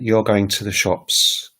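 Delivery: "You're going to the shops" slowly, with a falling tune; falling statement intonation. Shown as a demonstration. Teacher naming the statement, "You're going to the shops" slow and falling. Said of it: "is a sort of falling".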